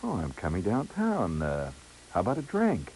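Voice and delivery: soft, coy imitated woman; melting phone voice. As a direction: purr the invitation down the phone. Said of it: "kind of voice that just comes melting".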